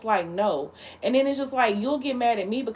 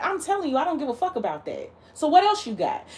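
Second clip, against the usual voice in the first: pitched way up, tossing it back at him; sharp, high comeback to a show-off; incredulous dare, voice jumping high; exasperated retort; 5 semitones higher than usual. Retold or imitated. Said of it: "I'm like".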